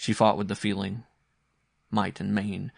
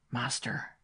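soft, hushed whisper; 3 semitones higher, 5 dB quieter than usual. A narrator's reading. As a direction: whisper to rouse a sick child. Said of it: "he whispered".

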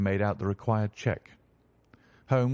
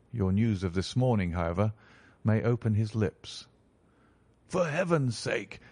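lower, measured detective explaining; calm detective; 4 semitones lower than usual. Acted. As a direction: Holmes laying out the truth gravely. Holmes explaining the mystery.

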